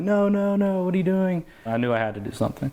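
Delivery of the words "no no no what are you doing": higher, louder imitating a frightened girlfriend; panicked plea. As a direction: replay her panicked no, no. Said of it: "his girlfriend's freaking out, being like".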